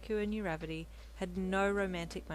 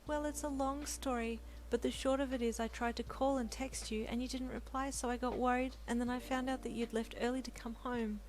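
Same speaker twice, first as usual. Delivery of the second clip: lightly voiced wife, a touch higher; explaining young wife; 6 semitones higher than usual. Wife explaining to Deku, lightly higher. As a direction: tell him why she worried, gently. Wife's voice in the story.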